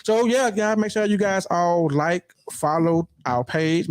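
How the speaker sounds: slow, drawn-out host voice; slow announcer delivery; radio voice. Shown as a demonstration. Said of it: "my radio voice getting better".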